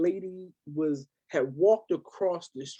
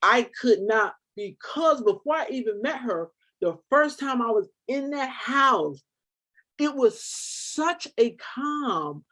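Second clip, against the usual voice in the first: emotional; 4 semitones higher, 5 dB louder than usual. Real, not acted. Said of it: "good sister had to break".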